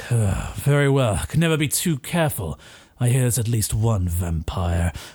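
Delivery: put-on oddly deep voice from a young boy. Recounting a scene, voicing the young boy talking to the man, in a deep voice. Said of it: "young boy with such a deep voice".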